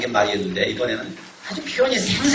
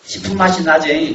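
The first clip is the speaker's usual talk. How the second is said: Jeolla dialect; 3 semitones higher, 3 dB louder than usual. Retold or imitated. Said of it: "그렇게 말합니다".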